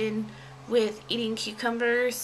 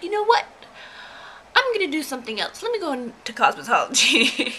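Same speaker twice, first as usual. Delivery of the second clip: fed-up resolve; 3 semitones higher, faster than usual. Retold or imitated. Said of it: "so after that I was like".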